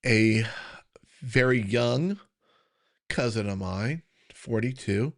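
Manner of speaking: near-whisper, fighting back tears; barely voiced, holding back emotion; choking up. Real, not acted. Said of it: "if, if I can talk about this".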